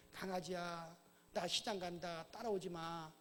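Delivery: soft, mild words to a puppy; gentle scolding. Pretend. Owner gently telling puppy to stay, soft. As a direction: coax the dog away softly. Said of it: "부드럽게 말하면".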